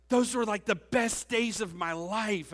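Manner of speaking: put-on high, loud, slow gushing girl voice. Pastor imitating an excited girl at his reunion, high and loud. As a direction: squeal it like an overexcited classmate. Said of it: "And she goes".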